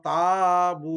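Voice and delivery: slow modelled তাবু; teacher models the thin letter slowly; thin light ta. Shown as a demonstration. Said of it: "চিকন করে পড়া হরফ".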